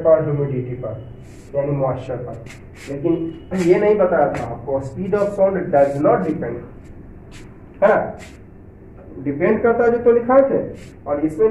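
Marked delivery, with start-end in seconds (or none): 4.9-6.6 not pressed home in a slow read; slow reading, stress on not. Shown as a demonstration. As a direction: lean on not while dictating. Reads textbook line aloud. (धीमे पढ़ते हुए not पर ज़ोर)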